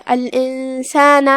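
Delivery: الانسان slowly, nun hidden in a held hum; slow tajweed الانسان with nasal hold; ikhfa pronunciation. Shown as a demonstration. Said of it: "حکم الاخفاء کا دھیان رہے".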